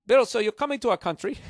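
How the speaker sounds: high, loud, chirpy host voice; radio host switching languages. Retold or imitated. Icelandic host turning back to the guest, high loud host voice. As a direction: flip into a high, loud interviewer's welcome. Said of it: "they go right back to you".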